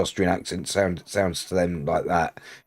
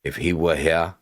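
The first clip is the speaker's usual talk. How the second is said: measured read-aloud of a character's speech; quest narration; 4 semitones lower than usual. Acted. Streamer reading the quest to viewers, measured narration.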